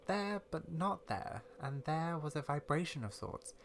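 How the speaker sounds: measured, mysterious game-character reading; storyteller character. Acted. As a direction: softly recount an uncanny experience.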